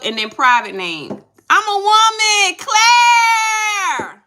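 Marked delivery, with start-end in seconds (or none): 1.5-4.2 high, loud cry of shock; stunned squeal at the news; surprised shout. Real, not acted. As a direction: shriek it out in disbelief. Reacts to viewer's surprising reveal.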